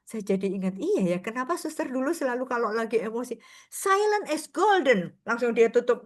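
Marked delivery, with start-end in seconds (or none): 3.7-5.2 high, slow restrained mantra; nun holding her temper. Retold or imitated. Dutch nun stopping herself in anger, high and slow. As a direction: bite back the anger with one phrase.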